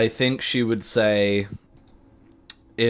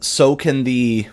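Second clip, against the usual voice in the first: firm warning; 5 semitones higher, 4 dB louder than usual. Acted. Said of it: "He's just like".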